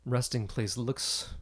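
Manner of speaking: put-on preen like a vain old dragon. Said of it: "he says".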